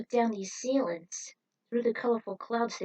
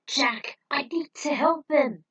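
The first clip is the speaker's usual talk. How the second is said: loud, higher protest; insistent shout; 5 semitones higher, 8 dB louder, slower than usual. Acted. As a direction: shout back, determined. Rick insists on helping.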